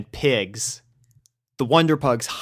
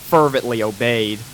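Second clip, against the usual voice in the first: usual speaking voice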